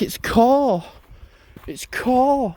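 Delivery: like a bird. Retold or imitated. Youths shouting a team's name at him, like a bird. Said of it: "like a bird".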